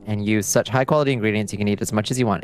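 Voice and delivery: fast, smooth commercial voice; ad read. Acted. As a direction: sell it like a TV ad. Mock ad pitch for polycule.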